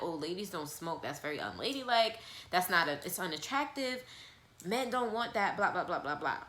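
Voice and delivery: imitating mom in a light Jamaican accent; a hint of a Jamaican mother lecturing. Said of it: "in her best Jamaican accent".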